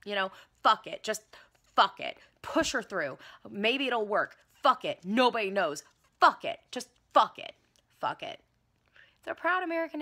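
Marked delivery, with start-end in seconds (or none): 0.6-8.4 loud, reckless fuck it chant; reckless shout. Acted. Officials giving up on vetting, loud and reckless. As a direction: bark it out, devil-may-care.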